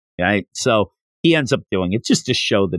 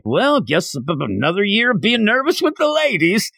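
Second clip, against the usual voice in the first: stammering, pitched up in a nervous Yamcha voice; mock nervous stammer; 9 semitones higher than usual. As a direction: stumble over the words, rising higher.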